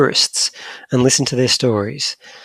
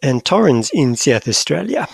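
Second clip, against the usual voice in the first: put-on South African accent. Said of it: "with a South African accent".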